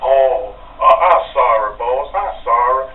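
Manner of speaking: put-on Andre's apology in a French accent; mock French accent, pleading. Imitating Andre apologizing in a French accent. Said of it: "with that French accent".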